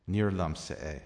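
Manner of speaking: Níor liomsa é with liomsa stressed as "LUM-sa"; emphatic liomsa. Shown as a demonstration. Irish teacher demonstrates the emphatic liomsa form. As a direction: lean on liomsa, not plain lum. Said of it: "the emphatic liomsa instead of lum".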